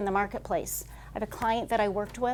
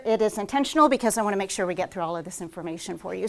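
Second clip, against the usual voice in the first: fast talking; faster than usual. Real, not acted. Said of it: "If I am talking like an auctioneer".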